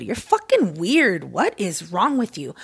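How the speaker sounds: imitating co-host. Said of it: "I'll say it like she would".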